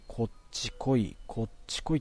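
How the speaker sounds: Tsugaru dialect. Retold or imitated. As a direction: call them over softly in Tsugaru dialect. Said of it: "ふとね、津軽弁で、".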